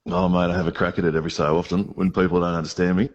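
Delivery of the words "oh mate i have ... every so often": put-on Aussie accent; Australian accent. Shown as a demonstration. Scotsman showing radio hosts his Aussie, put-on Australian accent. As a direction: have a crack at an Australian accent. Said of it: "do an Australian accent very well".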